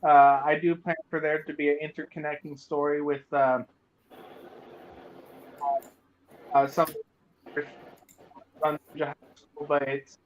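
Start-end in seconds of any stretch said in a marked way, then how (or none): 1.7-10.2 buzzing phone interference on the call; garbled, robotic broken-up voice; robotic glitchy audio. Real, not acted. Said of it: "roboting again".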